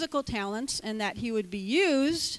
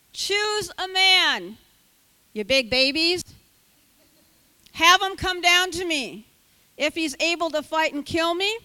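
shouting taunt; 2 semitones higher, 5 dB louder than usual. Acted. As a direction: taunt the army at full voice. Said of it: "Goliath stood and shouted".

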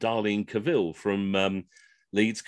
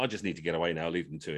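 quiet inner thought; 7 semitones lower, 9 dB quieter, faster than usual. Retold or imitated. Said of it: "I thought".

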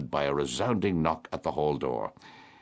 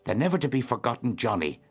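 laughing; 7 semitones higher, faster than usual. A narrator's reading. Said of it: "said Mary Jane, laughing".

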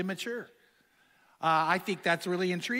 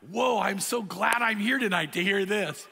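sarcastic aside. Retold or imitated. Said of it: "And I'm going".

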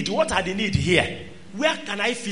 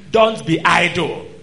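"Don't be idle" louder and slowed, "Don't" hit; loud slow warning; 4 semitones lower, 7 dB louder than usual. Real, not acted. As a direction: slam the warning home. Warning repeated over music.

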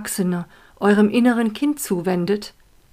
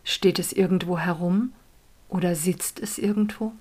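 whisper; 5 dB quieter than usual. Acted. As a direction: hush it like a secret. Whispered meditation guidance.

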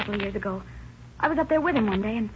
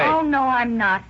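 slow, louder, every word set down; firm defiance; 5 dB louder, slower than usual. Acted. Wife refusing her bullying husband, slow loud defiance. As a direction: refuse him flatly, slowly.

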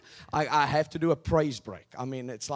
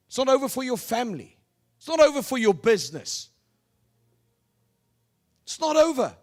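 loud, high rallying preach; preaching at full force; 4 semitones higher, 5 dB louder than usual. Acted. Preacher rousing the congregation, loud and rising. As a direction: build and hammer each line.

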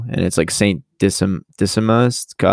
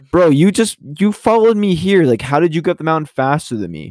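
exasperated complaint; 6 semitones higher than usual. Retold or imitated. Nate mock-complaining to villains.

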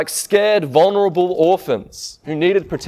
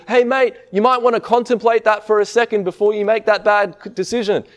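gentle mild request; 6 semitones higher than usual. Retold or imitated. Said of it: "He doesn't say as his son is hurtling".

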